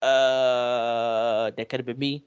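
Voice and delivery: low, hushed realization; imitating stunned cousin. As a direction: drop low for a mock stunned reaction. Cousin's stunned reaction, acted out.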